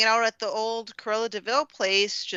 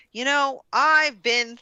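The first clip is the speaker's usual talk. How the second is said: Horace voice; 7 semitones higher, 5 dB louder, slower than usual. Retold or imitated. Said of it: "in a line, he goes".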